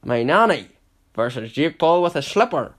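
high and loud mock announcer call; bill it like a ring MC joke; fight announcer.

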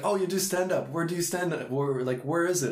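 high, mock-eager questioning; imitating eager askers. People asking a comic where he performs, high mock eagerness. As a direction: pitch it up as everyone asking at once.

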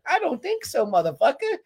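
defiant retort. Retold or imitated. Fan imagining standing up to the insult, defiant. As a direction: fire it back as a challenge. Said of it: "I'm like".

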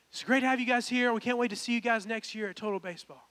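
lightly acted cheerful camp host; camp host sign-off. Acting out camp hosts' closing speech.

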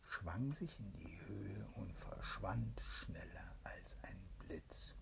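hushed whispered storytelling; bedtime whisper. A narrator's reading. Mother reads a bedtime tale to her child, whispering.

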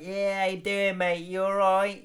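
chirpy pal in the club; lightly voiced happy clubber; friendly clubber. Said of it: "you're like".

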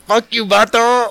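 put-on high-pitched caricatured Chicano accent; mock Chicano accent. Co-host mock-cursing the host, exaggerated Chicano accent. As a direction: throw it out in a hammed-up Chicano voice. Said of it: "doing a super racist accent".

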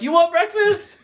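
high, mock old-lady voice; lightly voiced old lady; imitated old lady. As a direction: ask sweetly as the old lady. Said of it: "she's like".

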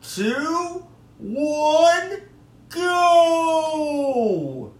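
high, announcer-style radio voice; hammed-up old-time radio host; old radio show. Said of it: "Do I sound like I'm on old time radio?".

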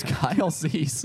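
slow, laughing through it; ventriloquist voice. Shown as a demonstration. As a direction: jaw shut, lips barely moving. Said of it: "ventriloquist voice".

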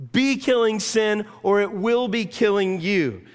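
loud, high and slow exhortation; John Owen's voice quoted loudly; stern Puritan warning. Retold or imitated. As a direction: hammer home the charge to kill sin. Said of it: "He said it this way".

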